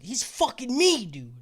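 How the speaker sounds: half-yelled retold complaint; mock yell. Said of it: "keep yelling at each other".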